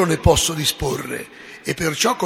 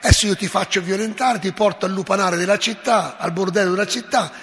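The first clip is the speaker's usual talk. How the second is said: menacing tone; 3 semitones higher than usual. Acted. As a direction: menace her, rising to a near shout. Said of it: "con tono minaccioso". (Pascasio minaccia Lucia, tono minaccioso crescente)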